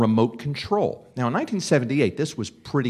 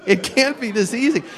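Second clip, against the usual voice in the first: higher, louder amazed repeat; louder excited disbelief; 11 semitones higher, 4 dB louder than usual. Retold or imitated. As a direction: say it again, more thrilled. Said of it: "I freaked out".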